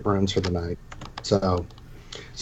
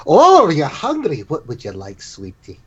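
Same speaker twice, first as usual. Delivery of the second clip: tender innkeeper; slower than usual. Acted. Innkeeper asking the hungry girl what she wants, tender. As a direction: gently ask a shy child what she wants.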